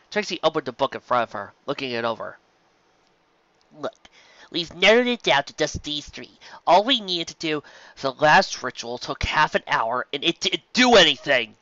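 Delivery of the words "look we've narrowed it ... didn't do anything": rising to a higher, louder exclaim; building frustration, voice climbing; exasperated outburst. Acted. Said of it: "Lyra exclaimed".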